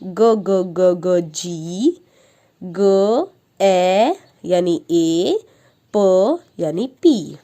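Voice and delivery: slow, repeated ब ब ब ब then letter names; teacher drilling letter sounds; phonics sounding out. Shown as a demonstration. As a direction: stretch each sound for a child. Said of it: "उसी तरह हम बनाएंगे गैप".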